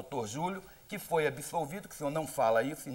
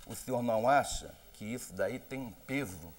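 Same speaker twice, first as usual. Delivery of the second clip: lower, softer, slowed-down questioning; deliberately soft and calm; 5 semitones lower than usual. Shown as a demonstration. Journalist asks the candidate again, now in a soothing, softer voice. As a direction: ask it gently to keep him from losing control. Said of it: "Vou mudar a voz pra ver se o senhor não se descontrola".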